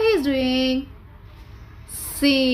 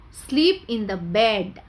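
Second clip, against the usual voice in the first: slow model sentence; 3 semitones lower, slower than usual. Shown as a demonstration. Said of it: "what the sentence here?".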